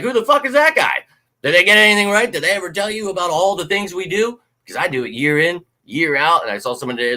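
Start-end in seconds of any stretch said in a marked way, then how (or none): 0.0-4.4 incredulous outburst. Retold or imitated. Venting at fans who cite another source, high incredulous outburst. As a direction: fire back in stunned disbelief. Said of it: "I'm like".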